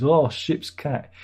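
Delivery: drawn-out, long-suffering sigh of a title; slow exasperated mock groan; slow weary groan. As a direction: say it like a running joke she's sick of. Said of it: "She still mentions".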